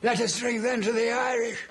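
mocking toast.

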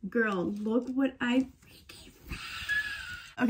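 slow, hushed thrilled reveal; drawn-out giddy whisper of a find; overexcited hushed reveal; excited. Real, not acted. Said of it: "sorry, I got too excited".

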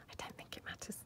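breathy unvoiced aside, very soft; whisper. Real, not acted. Crafter reassuring viewers about the huge butterfly, whispered. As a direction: murmur it to yourself.

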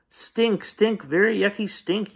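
put-on high squeaky kid yell; yelling child. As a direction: shout it out in disgust. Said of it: "yelled Tate".

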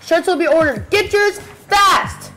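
high, slow, drawn-out hype call; chipper 1950s ad. Acted. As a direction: stretch it out like a sales pitch. Hyping shirt sale.

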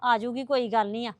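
gently calming an elder down; placating. Acted. Placating an angry mother-in-law.

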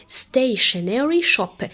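slowly, each syllable drawn out; slow teaching demo. Shown as a demonstration. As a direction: spell it out slowly for the kids. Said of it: "بيتنطقوا كده مع بعض شن".

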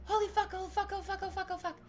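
high-pitched shocked swearing; gasp, then swear high in disbelief, tumbling into repeats; real overwhelmed shock; stunned amazement. Real, not acted. Stunned by the donations.

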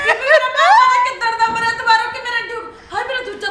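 hammed-up tearful yell; mock crying shout. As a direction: daughter fake-cries back at the wailing mother.

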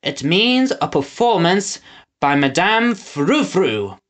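slow talk through pursed lips. Acted. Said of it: "his lips still grotesquely pursed".

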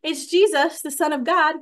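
hammed-up imitation of a boastful Jesus; mock grand announcement. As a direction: puff it up like a proud title. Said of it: "And he doesn't say".

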